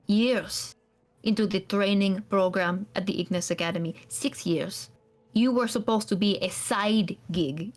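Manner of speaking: a hint of a cold, bitter scholar; bitter NPC scolding his runaway charge; a hint of clipped anger at the runaway; stern NPC rebuke.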